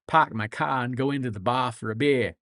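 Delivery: put-on lightly done stock Boston accent; Boston accent impression. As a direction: drop the R's like a Bostonian. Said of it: "impressions of, of Boston are basically".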